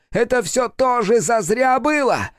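very high, slow demand; demon demanding. A narrator's reading. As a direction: press for an answer. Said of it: "вопрошал он".

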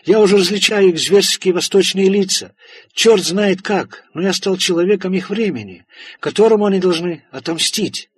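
high, loud, panicked voice; frantic terror. Acted. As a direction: rave like a hunted man. Farlow raving in terror.

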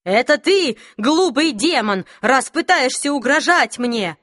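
shaky defiance. Acted. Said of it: "голос у него дрожал".

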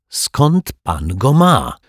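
high, drawn-out accusing question; sharp attack. A narrator's reading. Detective confronts the rogue, attacking sharply. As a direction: demand it sharply, pitch jumping up. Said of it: "zaatakował ostro".

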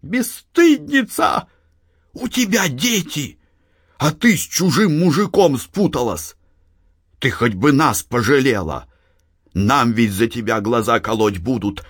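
put-on high scolding old mother voice. A narrator's reading. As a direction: scold her daughter like an old peasant woman. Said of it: "принялась ругать её". (мать бранит дочь высоким голосом)

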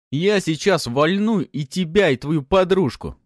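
громкая злая угроза, выше и медленно; орать угрозу прямо в лицо; угрожающий крик. A narrator's reading. Bandit threatens captive. (бандит орёт угрозы пленнику и его другу)

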